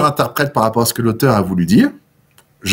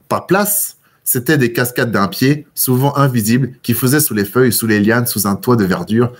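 measured literary read-aloud; teacher reading a Maupassant description to students; story reading. Acted. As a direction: read the passage to the class, evenly.

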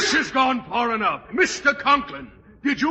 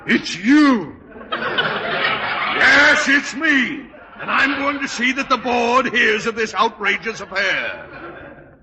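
indignant fury; slower than usual. Acted. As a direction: blast them with outrage. Official furious, threatening the board.

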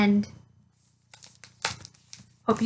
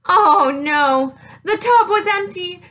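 louder, dismayed storybook alarm; 4 semitones higher, 5 dB louder than usual. Acted. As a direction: sound dismayed for the kids. Ice cream is gone.

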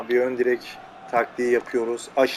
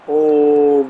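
surprised oh; 6 dB louder than usual. Real, not acted. Striker turns slowly.

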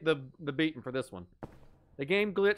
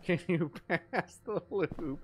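breaking into a laugh mid-line, slower and softer; can't keep a straight face; giggling through the question; 4 dB quieter, slower than usual. Acted.

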